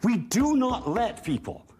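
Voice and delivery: impassioned, emphatic declaration; passionate. Real, not acted. Panelist denouncing jail without due process, passionate. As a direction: press each point with conviction. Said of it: "he's a little passionate about that".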